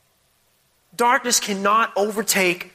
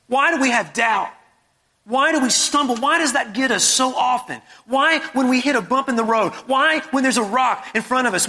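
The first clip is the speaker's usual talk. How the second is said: insistent rhetorical questions, building higher; impassioned preaching; 4 semitones higher than usual. Real, not acted. Preacher challenging the congregation's fear, impassioned. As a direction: preach it with rising urgency.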